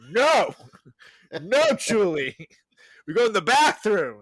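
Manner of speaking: high, exclaimed reprimand in short bursts; mock pet scolding. Boyfriend training Julie to go pee, mock scolding. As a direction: scold her like a puppy being house-trained.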